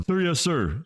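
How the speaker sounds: snapping to attention. A narrator's reading. Soldier snaps to attention.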